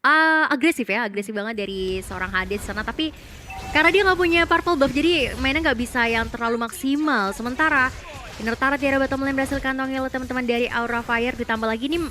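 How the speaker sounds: lively play-by-play commentary; esports caster. Acted. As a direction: call the match like a caster. Casts the match play-by-play. (komentator esports)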